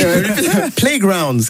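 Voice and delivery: Playground stretched out very slowly in English, laughing; english accent french. Shown as a demonstration. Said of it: "Repeat after me". (répéter Playground lentement à l'anglaise)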